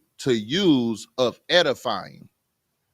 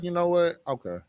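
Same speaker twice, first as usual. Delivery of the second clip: softening into a willing offer; easygoing, obliging husband; won-over husband; 4 semitones lower than usual. Acted. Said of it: "He gonna be like".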